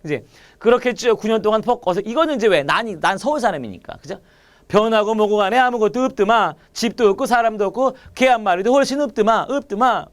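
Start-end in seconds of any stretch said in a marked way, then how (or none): 4.7-10.1 lightly voiced Gyeongsang accent reading; Gyeongsang dialect. Shown as a demonstration. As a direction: read it like a Gyeongsang local, understated. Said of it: "내가 지금 무슨 사투리 하고 있니?". (은은한 경상도 사투리로 읽기)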